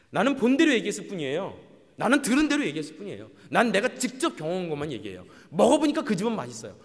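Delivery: loud, emphatic self-justification; insistent protest. Acted. Person defending what they saw and heard, acted insistence. Voices people insisting on their own experience.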